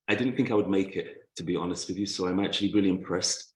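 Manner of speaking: slightly winded after running upstairs; out of breath. Real, not acted. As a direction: speak a little short of breath. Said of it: "I'm a little bit out of breath".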